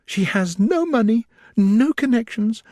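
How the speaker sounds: distressed after tears. A narrator's reading. Elizabeth tearfully telling Darcy of Lydia's elopement, distressed. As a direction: pour out the bad news, near tears. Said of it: "At length she spoke again".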